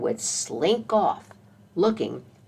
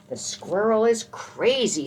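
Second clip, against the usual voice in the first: alarmed dog; 6 semitones higher, 4 dB louder than usual. A narrator's reading. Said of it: "said the dog".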